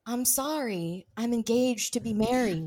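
impression of Sandra. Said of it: "Really good impressions".

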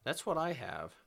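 blocked nose, stuffed-up voice; talking through a stuffed-up nose; stuffy nose. Real, not acted. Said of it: "I'm sorry if I sound, uh, kinda stuffed up".

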